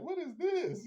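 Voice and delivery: mock shocked teen girl; imitating Ellie. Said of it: "She's like".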